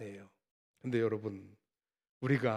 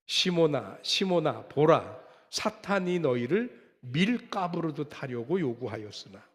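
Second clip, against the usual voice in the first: scripture reading; 3 dB louder than usual. Acted. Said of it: "같이 한번 읽어볼까요?".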